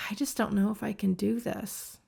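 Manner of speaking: soft, discouraged demonstration; quietly voiced doubt; emotional self-doubt. Shown as a demonstration. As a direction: drop the volume as if losing confidence. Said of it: "an emotional way".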